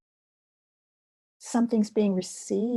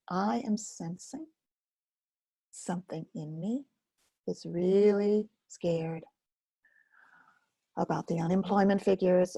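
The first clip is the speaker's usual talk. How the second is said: gentle self-talk demo. Shown as a demonstration. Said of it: "the same language I'm talking about".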